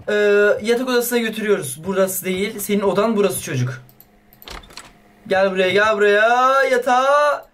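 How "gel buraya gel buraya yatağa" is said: slow coaxing call. Real, not acted. Coaxing baby to bed.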